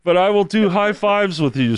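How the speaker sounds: high-pitched woman's voice breaking into laughter; imitated emphatic woman. Woman tells the man her touching rules, imitated high and laughing.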